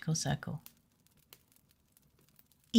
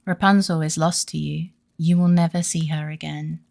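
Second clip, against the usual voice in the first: mocking witch; 5 dB louder than usual. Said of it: "she cried mockingly".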